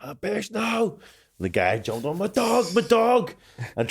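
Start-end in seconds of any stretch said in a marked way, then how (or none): 0.0-1.0 high-pitched mock cry to a dog; pitched-up cry of dismay, played for the story; re-enacted alarm. 2.2-3.3 high, drawn-out mock wail; slow, pitched-up cry of distress, acted out; imitated panic. Acts out the owner panicking.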